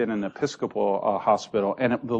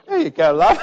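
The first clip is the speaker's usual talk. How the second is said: put-on old doctor; 6 semitones higher, 7 dB louder than usual. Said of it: "And he's there going".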